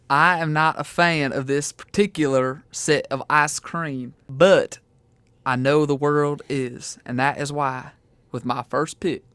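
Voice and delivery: slow, lightly voiced Southern drawl; Southern accent. Joe announcing his mint pick, mild Southern accent. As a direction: ease into a mild Southern twang. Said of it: "speak in a Southern accent".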